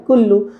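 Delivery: কুল্লু with a short final লু; brief কুল্লু in two short syllables; quick, no stretch. Shown as a demonstration. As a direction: say কুল্লু quickly, last vowel not held. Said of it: "তাড়াতাড়ি".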